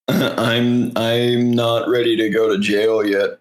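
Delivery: sleazy creep whisper, half-joking; mock quote of a rapper. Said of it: "he kissed a seventeen-year-old after going".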